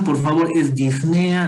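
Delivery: "disnea" with the stress on the E, dis-NE-a. Shown as a demonstration. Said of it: "Lleva acento en la E".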